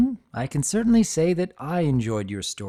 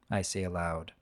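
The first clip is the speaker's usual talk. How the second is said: unhurried first-person storyteller reading; reading an old dragon's memories aloud, gently; story narration. A narrator's reading. Narrator reads Spike's memoir to listeners, steady storytelling.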